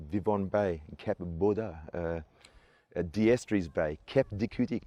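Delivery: French place names in a broad Australian accent; attempted French pronunciation. Shown as a demonstration. Island guide trying French place names for visitors, rough French accent. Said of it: "I can't do that very well".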